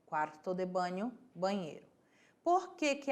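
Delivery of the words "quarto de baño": teacher sounding out the Spanish; Spanish model word. Shown as a demonstration. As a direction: model "Quarto de baño" with a Spanish "baño". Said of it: "é quarto de baño".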